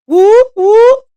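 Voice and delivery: high, loud whoop whoop cheer. Real, not acted. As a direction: cheer it out like a hype call. Cheering about YouTube sign-ups.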